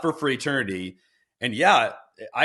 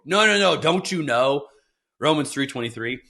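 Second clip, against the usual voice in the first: mock scolding. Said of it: "I've gotten that quoted at me".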